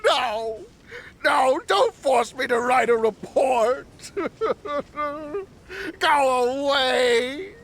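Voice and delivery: hysterical crying. Acted.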